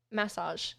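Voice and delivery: massage as "MASS-ahzh", falling; own pronunciation. Shown as a demonstration. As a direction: say massage with a full "mass" at the start. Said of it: "I say".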